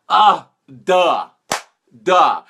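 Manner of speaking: mock-bored audience groan, loud Duh. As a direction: play the unimpressed viewer rolling their eyes. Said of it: "some of you are gonna go".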